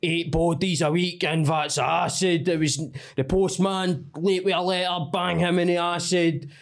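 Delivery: lightly voiced Glasgow hard man; James English style. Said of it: "do James English style of".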